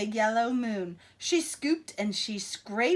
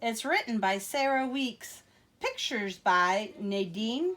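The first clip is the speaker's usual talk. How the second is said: put-on reading to children. Reading a picture book to children.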